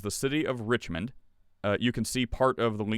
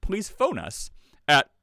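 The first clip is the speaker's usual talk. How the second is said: town crier; 4 semitones higher, 3 dB louder, slower than usual. Pretend. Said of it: "like a town crier".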